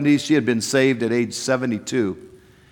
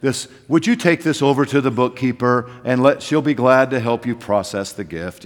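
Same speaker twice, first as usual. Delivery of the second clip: low, solemn pulpit voice; preacher voice; 3 semitones lower than usual. Retold or imitated. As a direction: put on the formal pastor voice. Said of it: "I put on my preacher voice".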